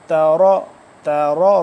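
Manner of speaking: تروا with a thick, full "r" and rounded "raw"; heavy ra. Shown as a demonstration. Teacher drilling the letter for learners, heavy ra. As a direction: say تروا loudly with a heavy back-of-mouth ra. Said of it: "را موٹا ہے".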